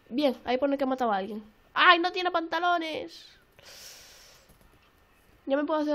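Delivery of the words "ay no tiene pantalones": loud, slow, drawn-out wail; loud comic lament; comic dismay. Real, not acted. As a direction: wail it out in dragged syllables. Mock dismay at missing trousers.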